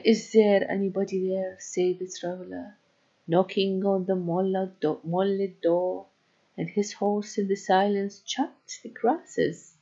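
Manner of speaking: slow, measured reading of a poem. Acted. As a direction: read it slowly, line by line. Teacher reads poem aloud.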